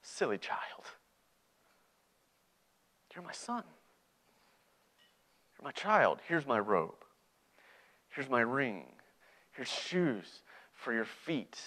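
soft, unhurried words with long pauses; tender father. Acted. Father receiving his returned son, tenderly. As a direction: gently welcome a lost child home. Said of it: "And the father says".

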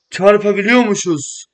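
loud, high and slow delight; amazed discovery. Real, not acted. Gamer thrilled to learn cars can crash, loud and slow. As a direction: stretch out the amazed realisation.

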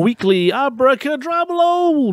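hype host. Acted.

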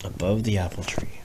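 soft unvoiced whisper. Parent whispering a line of the bedtime story. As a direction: breathe the words out.

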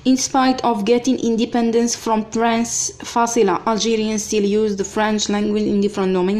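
slow, even dictation pace; teacher dictating to students. Acted. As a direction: read it out word by word for copying. Dictating the sentence to class.

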